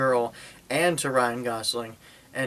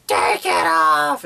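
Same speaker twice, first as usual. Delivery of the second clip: drawn out and much louder, slow retold yell; retold scream; 4 semitones higher, 7 dB louder, much slower than usual. Julian screaming at the girl to take off the dress, loud slow yell. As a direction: bark it at her, stretched and loud. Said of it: "And he screams".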